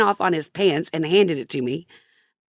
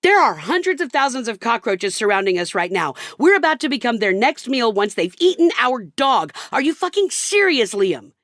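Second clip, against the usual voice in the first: lost it; 4 semitones higher than usual. Retold or imitated. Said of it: "I lost it".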